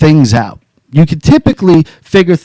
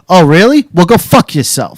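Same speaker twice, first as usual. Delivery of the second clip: snarky comeback. Retold or imitated. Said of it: "in a way where you come across".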